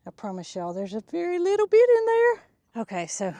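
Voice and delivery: breathless with excitement; winded, excited talk; out of breath. Real, not acted. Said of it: "I'm a little bit out of breath".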